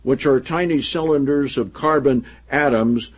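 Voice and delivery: projected, deliberate reading of a book; emphatic read-aloud. Acted. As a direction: read the passage out to the room with emphasis. Reads book passage aloud.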